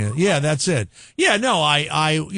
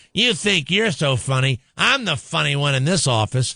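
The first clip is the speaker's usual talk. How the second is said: put-on drunk women's voice. Retelling what drunk women at the office said: imitating drunk women. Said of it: "a lot of drunk women going".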